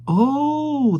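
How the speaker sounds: high mousy squeak. A narrator's reading. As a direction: squeal it like excited mice. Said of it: "they squeaked, like excited mice".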